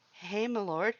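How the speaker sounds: high, teasing call; playful greeting. A narrator's reading. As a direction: sing out a cheeky greeting. New brother greeting.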